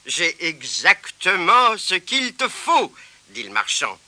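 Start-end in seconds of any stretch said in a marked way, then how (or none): 0.1-2.9 slow, pleased reply; kind shopkeeper. Acted. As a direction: say it with satisfaction.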